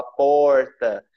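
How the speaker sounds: "porta" with the R pulled, Goiás style; rolled goiano R. Shown as a demonstration. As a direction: pull the R in "porta" hard. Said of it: "a gente puxa o R". ("porta" com o R puxado goiano)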